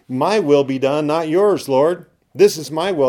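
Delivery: loud, high, defiant demand; arrogant self-will. Retold or imitated. Pastor mocking a worldly believer's arrogant prayer. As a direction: insist on getting your own way. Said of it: "these worldly mentalities is say".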